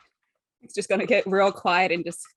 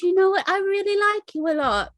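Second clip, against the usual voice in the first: high-pitched gush of affection; fond confession; 12 semitones higher than usual. Acted. High character confesses liking Clay.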